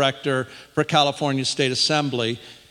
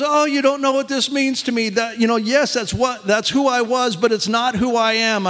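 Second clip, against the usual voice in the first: higher voice of an overjoyed caller; retold happy excitement; 6 semitones higher than usual. Imitating a woman explaining what reinstatement means, excited. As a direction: imitate her happy gushing, pitch lifted. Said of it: "She's excited".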